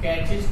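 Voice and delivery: कैचेस, the CH a true "ch" sound, not "k"; ch said as "cha". Shown as a demonstration. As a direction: say कैचेस with a "ch" as in chair. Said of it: "pronunciation यदि चा है".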